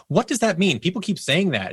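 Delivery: retold puzzled question.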